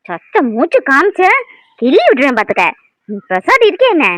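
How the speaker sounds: put-on loud, slowed warning to the baby; stern threat. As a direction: threaten to pinch if she cries.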